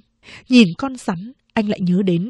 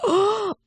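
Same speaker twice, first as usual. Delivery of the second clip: sharp gasp; 11 semitones higher than usual. Acted. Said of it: "vừa khóc vừa kể lể".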